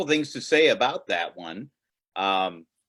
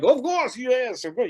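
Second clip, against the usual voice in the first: imitating a friend's French accent, pitched much higher; a quick mock French "of course" from a Parisian friend; 12 semitones higher than usual. Parisian friend answering an email request, in a playful mock French accent. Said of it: "not going to do my horrible French accent".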